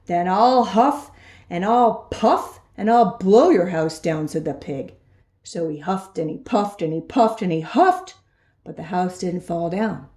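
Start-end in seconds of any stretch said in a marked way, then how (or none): 0.1-4.3 slow, deliberate pig threat; big bad pig. Big bad pig slowly threatening the wolves. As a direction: drag out the threat like a bully.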